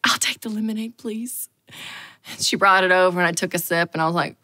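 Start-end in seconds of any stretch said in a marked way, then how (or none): 0.0-1.5 much softer, shrinking request; meek order. Retold or imitated. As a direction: order timidly, fading out. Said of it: "I said".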